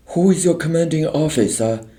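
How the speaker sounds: high, fast, firm demand. A narrator's reading. Teacher Helen demands the officer's name, unafraid. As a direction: demand it without fear. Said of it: "Helen demanded, unafraid".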